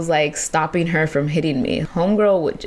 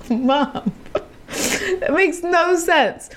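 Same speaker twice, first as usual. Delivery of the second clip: laughing protest; 10 semitones higher, much slower than usual. Retold or imitated. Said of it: "I was like".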